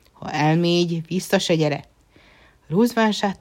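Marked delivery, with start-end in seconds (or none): 0.1-1.8 stern threat. Acted. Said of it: "csapott az asztalra a császár".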